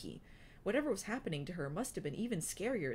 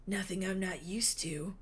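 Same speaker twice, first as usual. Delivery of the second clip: whisper. A narrator's reading. Wingtip speaks, whispered.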